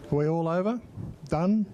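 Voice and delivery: brisk auctioneer calling for last bids. Pretend. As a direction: call it out like closing a sale. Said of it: "Sound like an auctioneer, don't I?".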